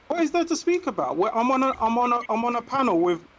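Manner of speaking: high, exasperated pushback. Real, not acted. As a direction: protest in disbelief, pitch jumping up. Heated exasperated reply.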